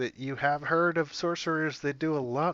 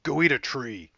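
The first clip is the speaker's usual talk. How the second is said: lightly voiced impression, a bit louder; Evan; 2 semitones higher, 5 dB louder than usual. Player quoting his friend's catchphrase, lightly done impression. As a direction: toss out the catchphrase with a touch of mimicry. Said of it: "it's not as good as my".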